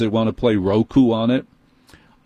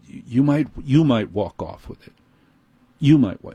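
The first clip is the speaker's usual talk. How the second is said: accusatory; 2 semitones higher than usual. Retold or imitated. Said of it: "he kind of did it that way".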